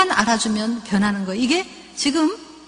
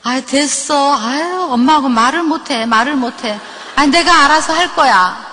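put-on amused teen exasperation, louder; exasperated daughter; 3 semitones higher, 5 dB louder than usual. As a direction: brush mom off and hang up. Annoyed daughter ending the call.

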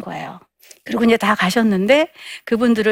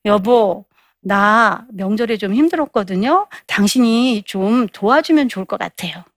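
gentle request. Acted. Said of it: "이렇게 요청하는 거예요".

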